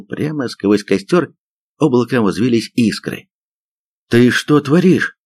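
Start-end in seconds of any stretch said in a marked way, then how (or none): 4.1-5.2 slow, higher-pitched stunned question. A narrator's reading. Soldier to sergeant who kicked the gun away, stunned. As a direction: draw it out in disbelief. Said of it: "ошеломлённо начал Коваленко".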